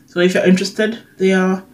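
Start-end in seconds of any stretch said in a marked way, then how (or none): 1.2-1.6 slight lisp on s sounds; talking with a lisp. Real, not acted. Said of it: "sorry for my lisp".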